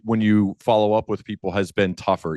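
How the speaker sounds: ordinary delivery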